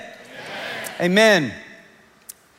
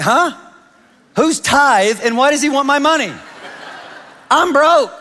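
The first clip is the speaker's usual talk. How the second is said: shocked disbelief; 9 semitones higher, 4 dB louder than usual. Retold or imitated. Young self hearing about tithe.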